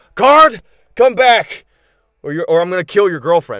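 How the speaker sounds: very loud, high-pitched, bellowing yell. Voicing a character who yells a threat to a guard: yelling threat. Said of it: "hear Ash yell out".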